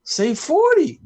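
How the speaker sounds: high, loud mock shout from the crowd; imitating a girl's yell. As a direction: call it out like a fan in the crowd. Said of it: "this girl yelled out".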